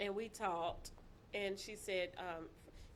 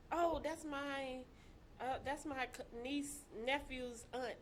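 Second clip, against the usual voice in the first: hesitant mock fluster, groping for words; caught off guard; 2 semitones higher, 6 dB quieter than usual. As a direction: imitate someone fumbling for an explanation. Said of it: "he was caught off guard".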